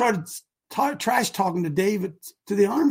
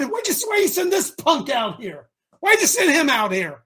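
scornful Goliath; 4 semitones higher than usual. Acted. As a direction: sneer at the boy sent out. Goliath angrily voiced.

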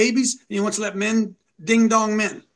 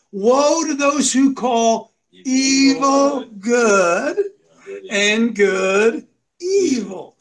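tearful reading; much slower than usual. Real, not acted. Reads scripture with emotion.

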